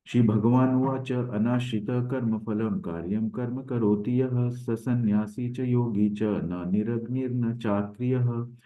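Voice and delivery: slow, chanting shloka delivery; sanskrit verse recitation. Acted. Teacher reciting the Gita verse to the class, slow chant. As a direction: intone the verse slowly and reverently.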